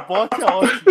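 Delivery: normal talking voice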